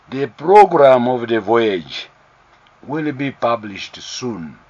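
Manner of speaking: slow, weighted "published soon" at the end; stress on published soon. Shown as a demonstration. Announcer to the press, stressing "published soon" slowly. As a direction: lean on "will be published soon", each word deliberate. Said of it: "I will emphasize the word published soon".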